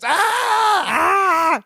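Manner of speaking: high yelped boo to startle; mock scare shout. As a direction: jump out shouting to scare him. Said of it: "and he goes".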